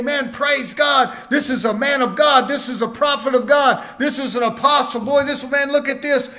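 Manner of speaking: awed praise. Retold or imitated. Young believer praising a preacher he admires, in awe. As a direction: gush over the man of God like a young believer.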